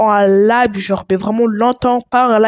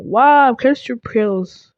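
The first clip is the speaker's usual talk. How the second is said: French in a put-on English accent; slow, English-accented French; much slower than usual. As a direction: slip into an English accent, drawn out. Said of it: "Pourquoi j'ai pris un accent anglais?".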